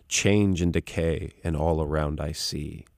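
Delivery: slow, measured hymn recitation; lightly voiced preacher reciting verse; preacher quoting a hymn. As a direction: recite it slowly, line by line, softening at the end. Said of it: "he would always quote this line".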